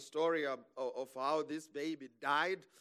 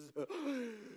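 long high gasp for air; acted breathless gasp; 6 semitones higher, 6 dB quieter than usual. Preacher imitating his panic on the couch, breathless gasp. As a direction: mimic gasping as if drowning. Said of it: "running out of breath".

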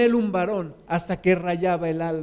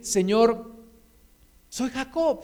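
earnest acted prayer, pitched up; heartfelt confession; 2 semitones higher, slower than usual. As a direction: let the heart speak, humbly owning the name. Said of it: "voy a dejar un poquito mi corazón que hable".

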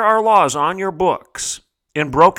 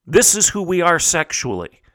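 imitating people shouting their identity, pitched higher; a higher, hammed-up mock proclamation of pride; mock proud shout; 5 semitones higher than usual. Host mocking activists shouting to the world, higher mock proclamation. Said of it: "they shout to the world".

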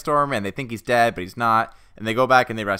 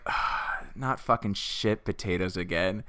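put-on groaning kids; 4 semitones lower, 9 dB quieter, slower than usual. Family groaning voiced.

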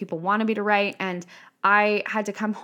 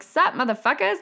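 high cheeky "Sup, motherfuckers?"; brash greeting; 7 semitones higher than usual. Retold or imitated. Showing up online, greeting followers with cheeky swagger. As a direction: toss it out like you own the room. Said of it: "I show up and I'm like".

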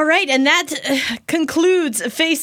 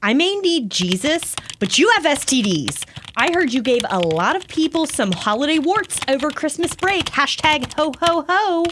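Amber. Acted. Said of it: "I will play Amber".

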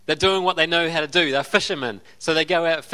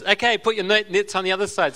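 supernatural voice; 3 semitones higher than usual. Retold or imitated. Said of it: "in his supernatural voice".

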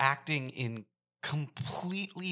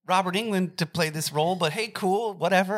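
higher, sarcastic shrug of an inner voice; mock reluctant inner voice; 5 semitones higher, 3 dB louder than usual. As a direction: play your own inner voice grudgingly giving in, pitched up. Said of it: "and I was like".

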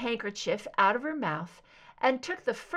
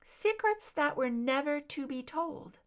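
darkened slightly; 5 semitones higher than usual. Acted. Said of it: "Raven's voice darkened slightly".

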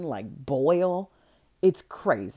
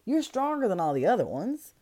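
calm. Retold or imitated. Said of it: "she's just so calm about it".

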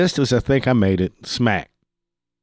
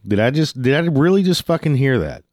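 higher-pitched mock disbelief; incredulous; 5 semitones higher than usual. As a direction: act out not believing your ears. Disbelief at the other driver's accusation.

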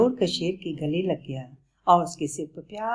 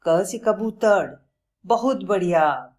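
slow, louder repetition of the lesson; repeating; 4 semitones higher, 5 dB louder, slower than usual. Acted. Lion repeats Bablu's lesson slowly and loud. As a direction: pupil echoing the teacher proudly. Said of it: "शेर ने दोहराया".

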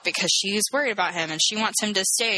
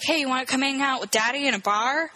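higher-pitched coaxing dad; imitated eager dad; 6 semitones higher than usual. Father to kid at a bar, mock coaxing. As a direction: lightly play a dad inviting his kid.

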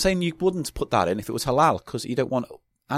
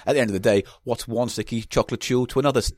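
lightly posh English voice; a touch of plummy posh. Acted. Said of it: "you're doing a posh voice".

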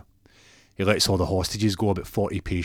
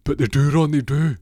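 high, loud insistent objection; doctor loudly insisting to Ron; indignant protest; 7 semitones higher, 7 dB louder than usual. Retold or imitated. Doctor protests about bananas.

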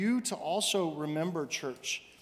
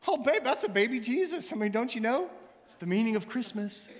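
higher, mock innocent explaining; sarcastic; 7 semitones higher than usual. The speaker teasing his wife about the dragon, sarcastic. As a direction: play dumb with a sly grin. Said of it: "in his sarcastic way".

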